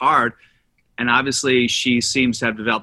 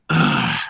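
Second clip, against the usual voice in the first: dramatic sigh. Acted. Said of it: "It starts with a big sigh".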